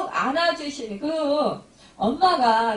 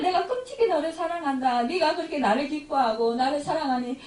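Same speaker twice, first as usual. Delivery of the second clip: tender voice of God; 3 semitones higher than usual. Retold or imitated. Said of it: "하나님께서 이렇게 사랑하시고".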